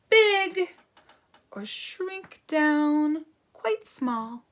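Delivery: expressive, deliberate picture-book reading; story reading. Acted. Teacher reads a spot-finding book to children, expressive story reading. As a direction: read to young children with clear pauses between phrases.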